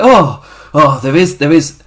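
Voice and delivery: loud, mock-jubilant realisation; jolly wrestler. Retelling the wrestler celebrating after the punch, jolly and loud. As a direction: imitate a gleeful discovery, loudly. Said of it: "he's all jolly".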